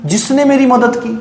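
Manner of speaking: normal talking voice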